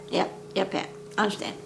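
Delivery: whispered, soft and sleepy; mock sleepy whisper; whispered yep. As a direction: breathe the answer barely voiced. Sleepy Mike answers Pat.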